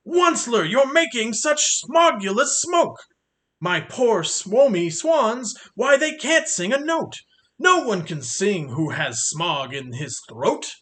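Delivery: the Lorax scolds the Onceler about smoke; scolding Lorax. Acted. Lorax voiced in read story.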